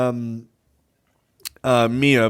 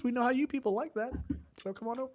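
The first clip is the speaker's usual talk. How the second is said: mock sales pitch; 8 semitones higher, 14 dB quieter, much faster than usual.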